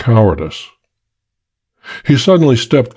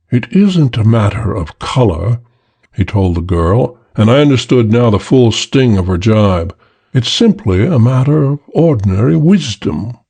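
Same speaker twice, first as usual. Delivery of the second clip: emotionless drawl. Acted. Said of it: "the same emotionless drawl".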